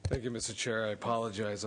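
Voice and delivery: winded, catching breath between words. Real, not acted. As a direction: speak out of breath after hurrying in. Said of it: "I'm a little out of breath right now".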